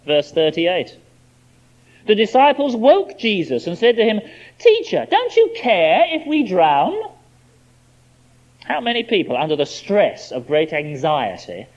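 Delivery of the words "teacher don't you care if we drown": frightened plea. Acted. Frightened disciples wake Jesus.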